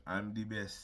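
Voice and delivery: half-practised attempt at Gunther's accent; lightly put-on, unsure foreign accent. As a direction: try a rough imitation of a wrestler's foreign accent. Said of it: "I'm not gonna do that accent".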